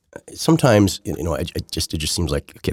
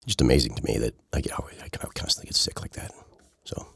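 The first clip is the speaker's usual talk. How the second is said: whispering; 5 semitones lower, 6 dB quieter than usual. Real, not acted. Quiet aside about getting sick.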